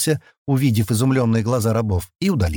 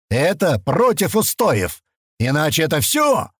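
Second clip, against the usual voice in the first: put-on higher, ranting drunk tirade; barking rage; 7 semitones higher than usual. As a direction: rant at the boy, red-faced. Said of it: "рявкнул".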